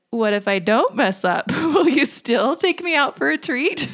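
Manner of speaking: put-on sly, laughing child's bargain; cheeky little question with a laugh in it; smirking cheekiness. Daughter bargaining with mom for a treat, sly and laughing. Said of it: "she smirked, and she said".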